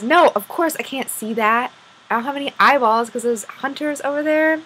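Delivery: a touch of indignation; mildly exasperated. Acted. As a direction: push back as if it were obvious. Eyeless fairy retorts to unicorn.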